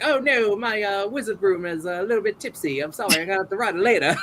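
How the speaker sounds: high-pitched fake British voice; fussy apology in a put-on British accent; mock British. Boy wizard with a tipsy broom, high mock British. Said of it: "Just being British".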